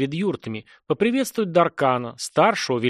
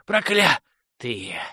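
«Проклятые» dragged out very slowly, fading to a wheeze; slow, dying whisper-rasp of «Проклятые»; barely wheezed; much slower than usual. Acted. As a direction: let «Проклятые» die away on the last breath. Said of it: "едва хрипел".

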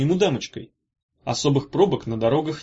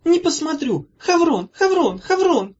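high, loud tearful wail; high, slow tearful cry; sobbing; 5 dB louder, slower than usual. A narrator's reading. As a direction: sob out his name. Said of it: "всхлипнула она".

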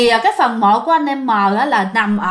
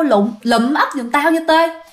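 ghost calling out; 3 semitones higher than usual. Acted. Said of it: "vẫy vẫy tay kêu".

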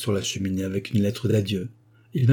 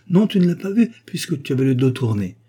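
sharp, high, louder angry retort; 4 semitones higher, 4 dB louder than usual. Acted. Joséphine angrily scolding Jean who wasn't looking, raised voice. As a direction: snap back at him, stung he wasn't looking. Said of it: "Elle se fâcha".

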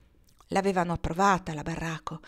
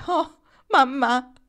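slow, higher anguished cry of Oh, mamma; heartrending voice; 6 semitones higher, 5 dB louder, much slower than usual. Acted. Barraco remembering her mother's suicide, slow anguished lament. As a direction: stretch Oh, mamma out as grief breaks through. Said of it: "disse con voce straziante".

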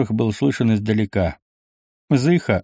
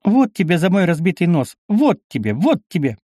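playful mock scolding; 7 semitones higher than usual. A narrator's reading. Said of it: "со смехом стала делать вид".

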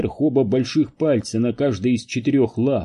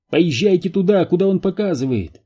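high, urgent call; shouted; 7 semitones higher than usual. A narrator's reading. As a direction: shout the direction in a raised voice. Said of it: "крикнул Энди". (громкий, высокий выкрик)

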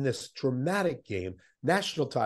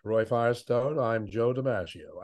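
Joe DiMaggio. Retold or imitated. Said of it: "that's how he talks".

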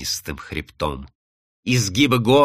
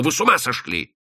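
hoarse exclamation; 4 semitones higher than usual. Acted. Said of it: "повторил хрипло".

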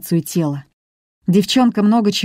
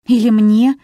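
higher and louder indignant retort; 5 semitones higher, 5 dB louder than usual. A narrator's reading. Nina indignant at her brother, a higher, louder outraged retort. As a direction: snap back, offended. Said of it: "возмутилась Нина".

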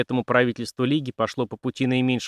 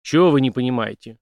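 snarling snap; 5 dB louder than usual. Acted. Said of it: "окрысился полицмейстер".

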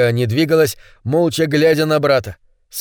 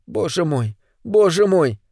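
whispered horror rising; 3 semitones higher than usual. Acted. Olga's horror.

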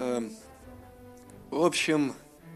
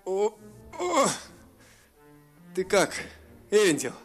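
groaning; 8 semitones higher than usual. A narrator's reading. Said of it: "простонал дракон".

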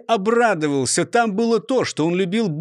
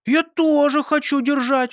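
put-on higher, childish eager voice; small boy voice; 9 semitones higher, 3 dB louder than usual. A narrator's reading. Four-year-old Peter asking to hold, childlike. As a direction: sound like a little boy wanting in. Little Peter asks to help.

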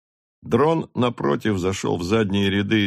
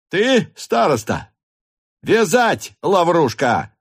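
high, loud command; officer ordering the headman tied, high and loud; shouted order; 8 semitones higher, 4 dB louder, slower than usual. A narrator's reading. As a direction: snap the order at the servant. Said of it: "кричал Ростов".

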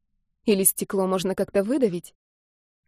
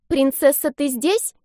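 put-on high, louder child's question; girl peeking in, calling her cat; little girl asking; 6 semitones higher, 4 dB louder, slower than usual. A narrator's reading. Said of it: "спросила она".

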